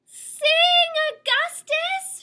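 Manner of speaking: very loud, high shout; urgent cry. A narrator's reading. Nell urging the prince to sing, loud. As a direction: yell the command. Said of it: "she cries".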